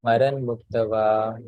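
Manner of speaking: slow, deliberate chant; staccato. Shown as a demonstration. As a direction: spell out each word slowly. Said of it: "one word at a time first".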